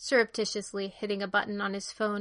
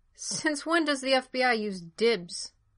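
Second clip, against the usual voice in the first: slow, pointed, insistent, demanding tone; 4 semitones higher than usual. Hardison responds to Bendix's explanation, demanding. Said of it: "Hardison demanded".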